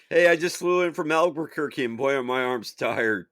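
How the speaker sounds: lightly voiced old-time comic; corny one-liner delivery; old borscht belt comic. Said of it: "like it's a regular comedy club".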